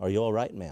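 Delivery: mock gentle, peaceful, calm, concerned tone. Retelling how a man at a woman's car window asked after her, retelling a peacefully calm voice. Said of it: "says in a just peacefully calm voice".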